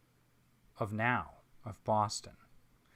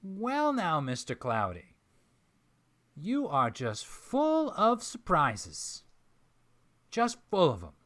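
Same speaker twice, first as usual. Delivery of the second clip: slow, amused Southern drawl, higher; Southern accent; 6 semitones higher, 4 dB louder than usual. Acted. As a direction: savour every word like a sly Southern host. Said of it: "Southern accent".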